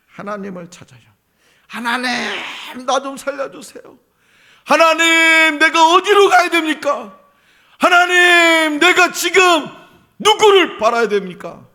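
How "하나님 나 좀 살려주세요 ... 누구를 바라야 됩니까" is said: high, loud pleading cry for help; acted plea, voice straining high; desperate cry to God. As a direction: beg God for rescue at the top of the voice. Congregation crying out to God.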